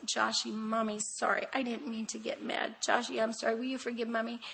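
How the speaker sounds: put-on soft, tender apology to a little boy; hushed, loving mother's sorry; soft mommy apology. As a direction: coo it gently like a mother to her toddler. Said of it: "I'd say".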